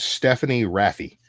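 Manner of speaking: "Stephanie Raffi" with flat American vowels, Raffi as RAFF-ee; mock Americanized pronunciation. Refusing to say the foreign name properly, mock Americanized pronunciation. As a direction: Americanize "Stephanie Raffi" into everyday English sounds. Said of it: "that's not how we say it here".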